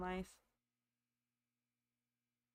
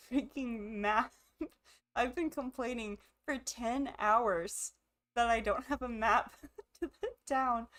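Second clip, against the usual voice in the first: laughing frustration; 2 semitones higher, 3 dB louder than usual. Real, not acted. Finally finding the map.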